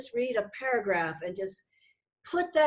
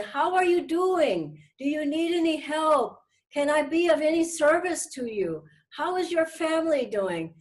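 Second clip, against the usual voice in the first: caring phone call; 4 semitones higher than usual. Shown as a demonstration. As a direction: ask as if you truly care.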